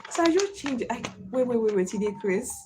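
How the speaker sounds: tough Warri Pidgin challenge; Warri accent. Retold or imitated. Telling touts to back off, in a tough Warri accent. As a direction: put on a streetwise Warri accent. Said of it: "my warrior accent".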